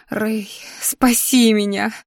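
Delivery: slow, breathless whisper from numb lips; desperate whisper. Acted. Heroine alone in the tower, begging Ray in a slow whisper. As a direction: whisper a plea to Ray, barely alive. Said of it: "шептала помертвевшими губами".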